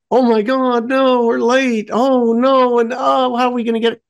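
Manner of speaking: high, monotone mock worry; mock dismay. The panicked reaction they didn't have.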